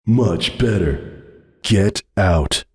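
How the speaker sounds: growled. Acted. Hoops ordering Sunburst out, growling. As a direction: growl it like a cornered beast. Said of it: "he growled".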